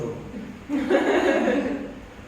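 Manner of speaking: airy unvoiced chuckle; breathy laugh. Real, not acted. Speaker laughs at his own quip, breathy chuckle.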